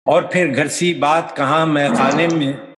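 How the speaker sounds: measured ghazal recital, phrase by phrase; poetry recitation. Acted. Poet presenting a ghazal to an appreciative audience, recited. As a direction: recite with deliberate cadence.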